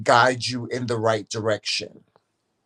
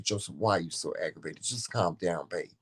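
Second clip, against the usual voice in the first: retold soothing; 6 semitones lower, 8 dB quieter than usual. Wife retells soothing aggravated husband.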